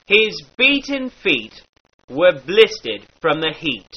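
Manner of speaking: beaten, feet, heat with an er blended in. Shown as a demonstration. Teacher demonstrates the dialect vowel. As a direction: blend er into the long E. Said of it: "the same treatment to long E".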